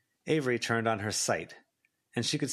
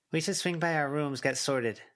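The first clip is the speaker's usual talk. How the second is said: put-on lightly raised girl voice; Lucy voice; 6 semitones higher than usual. A narrator's reading. Lucy telling the group to get sorted, light voice. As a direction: lift it for Lucy.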